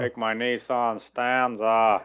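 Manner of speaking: lightly voiced henchman, slow; a hint of the cartoon henchman; Venture Brothers henchman voice. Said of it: "the henchman".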